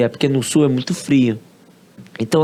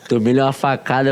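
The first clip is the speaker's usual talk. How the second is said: laughing. Real, not acted. Confessing the Japanese dinner to the host, laughing. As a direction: laugh at your own misfortune. Admitting he disliked Japanese food.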